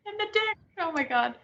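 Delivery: high then breathy-soft; fading disbelief. Real, not acted. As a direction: drift off, stunned.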